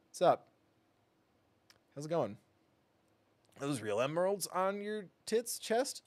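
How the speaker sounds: a lightly voiced leering flirt; teasing high put-on voice; flirty character voice.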